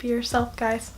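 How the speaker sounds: hoarse, sick voice; talking through a cold. Real, not acted. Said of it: "my incredibly sick voice".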